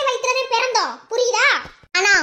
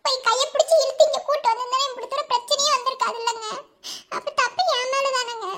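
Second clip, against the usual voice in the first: tearful, higher pleading; weepy lament to her husband; crying; 3 semitones higher than usual. Acted. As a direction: keep sobbing as you blame yourself. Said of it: "பூனைக்குட்டி மாதிரி அழுகாம".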